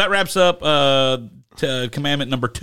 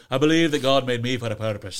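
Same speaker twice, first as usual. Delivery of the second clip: put-on the movie line again in a light Scottish accent, a bit softer; a soft Scottish accent, half to himself; 4 semitones lower, 5 dB quieter, faster than usual. Co-host repeating the film line he keeps thinking of, in a light Scottish accent. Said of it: "that's a really good Australian accent".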